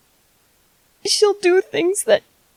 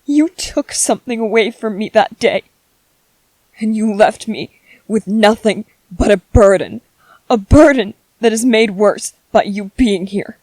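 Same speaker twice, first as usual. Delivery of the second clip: bitter anger; 5 semitones lower than usual. Acted. Bitter tirade at the ghost.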